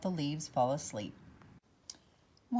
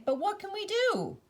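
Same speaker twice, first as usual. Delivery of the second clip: sighing; 14 semitones higher than usual. A narrator's reading. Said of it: "Orange Maple said with a sigh".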